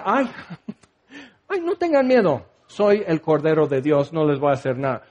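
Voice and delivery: hammed-up overly sorry Jesus; mock pleading Jesus. Mock timid Jesus again.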